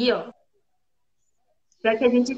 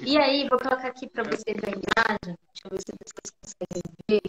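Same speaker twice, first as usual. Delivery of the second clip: frozen call, robotic garbled voice; broken-up robotic stream audio; 3 semitones lower, 5 dB quieter than usual. Real, not acted. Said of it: "a voz de robô".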